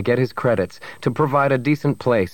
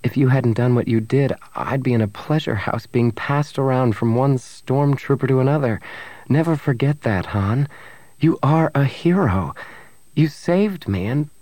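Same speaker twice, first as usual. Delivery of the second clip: earnest Bria; 3 semitones higher than usual. Acted. Bria reassures her despairing lover he is a hero, earnest. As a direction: insist on his worth, pitched up.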